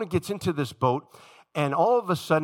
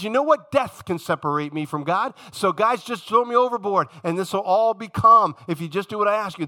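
louder, higher, defiant demand; defiant Jonah; 5 semitones higher, 5 dB louder than usual. Retold or imitated. Jonah demanding the sailors throw him overboard, loud and defiant.

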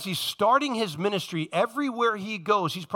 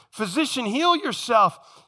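higher, drawn-out challenge on "heal yourself"; challenging taunt; 4 semitones higher, 3 dB louder, slower than usual. Acted. Crowd challenging Jesus to prove himself, taunting. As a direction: throw "heal yourself" out as a dare.

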